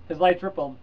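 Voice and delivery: measured read-aloud narration with lightly voiced characters; story reading. Vlogger reads Heinlein's novel to viewers, steady narration. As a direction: read the passage like an audiobook.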